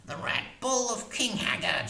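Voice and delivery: high, muttered crone line; muttering witch voice. A narrator's reading. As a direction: mutter it darkly. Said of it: "she muttered".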